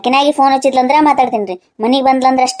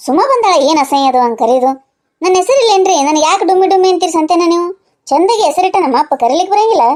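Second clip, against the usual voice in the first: indignant complaint; 4 semitones higher than usual. Acted. Wife objects to nickname Dummi.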